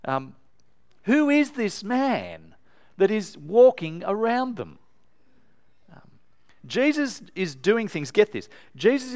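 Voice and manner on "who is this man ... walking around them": high, slow, a lightly voiced alarmed cry; frightened disciples crying out. Preacher voices disciples in the boat, high slow alarmed cry. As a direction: call out like a scared man in the boat. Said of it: "They cried out to him".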